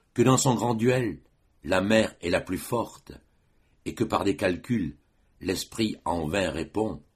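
measured, solemn verse reading with pauses between phrases; formal French poetry recital; poem recitation. Acted. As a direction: recite it line by line, letting each verse settle. Recites Vigny's poem after introducing it.

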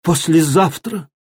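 «Послезавтра?» cried out high in disbelief; shocked cry. A narrator's reading. Daughter hears the wedding date, shocked cry. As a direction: gasp out «Послезавтра?» as if struck. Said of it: "вскрикнула Маша".

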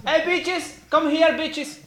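very high falsetto call; high silly voice. Pretend.

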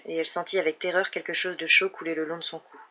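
plain reading voice

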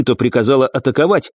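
ordinary delivery, nothing marked

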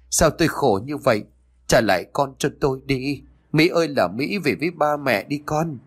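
grieving parents plead mildly tearfully; tearful lament. Acted. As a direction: beg for the daughter to come home. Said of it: "ngồi xuống đất mà khóc".

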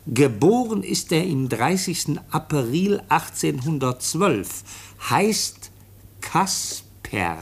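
reading a letter aloud. Acted. Officer reads the foundling's letter to the chief, slow formal reading. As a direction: read out each word slowly and carefully. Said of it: "Da steht was ganz anderes".

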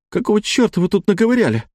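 a wife demanding answers, outraged; indignant outburst. Acted. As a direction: throw it at them, outraged. Wife's angry outburst.

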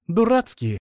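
outraged echo. A narrator's reading. Therapist echoing insult outraged.

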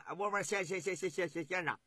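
吃惊得连连结巴; 一惊之下说不利索; 惊讶结巴. Acted. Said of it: "很惊奇地问". (齐王惊奇地结巴发问)

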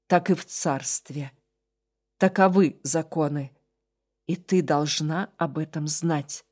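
low, slow fading voice; weak dying man. Acted. Dying demon explains laws. (слабый голос умирающего)

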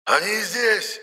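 very high, eerie squeal; shrieking doll spirit. A narrator's reading. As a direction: shriek it to betray them. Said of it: "заверещал из куклы Епифан".

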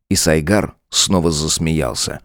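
usual speaking voice

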